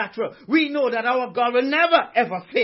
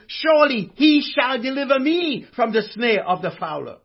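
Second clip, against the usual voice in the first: "Surely he shall deliver me" claimed as your own, a touch louder; personal conviction; 3 dB louder than usual. Shown as a demonstration. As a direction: own the promise, lean on "me". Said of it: "Make it personal".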